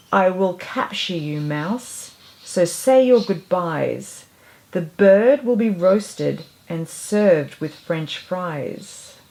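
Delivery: slow, menacing chef voice; mean chef. Acted. Lightly voiced head chef threatening the mouse, mean. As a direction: threaten them slowly and coldly.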